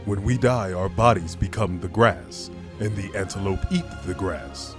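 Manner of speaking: stately, patient fatherly counsel; wise royal father. Acted. King teaching young Simba about the circle of life, wise and stately.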